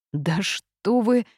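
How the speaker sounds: slow, drawn-out mild indignation; a touch of offended protest, stretched out; indignant. A narrator's reading. The mage, offended by the suspicion, slow and indignant. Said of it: "возмутился маг".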